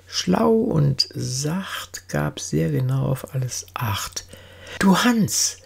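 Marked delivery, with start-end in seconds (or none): 4.8-5.6 mit höherer Stimme anrufen; leicht gespielter Zuruf an den Untergebenen; rufender Oberkranich. A narrator's reading. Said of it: "so rief der Oberkranich". (angedeuteter Ruf eines Anführers)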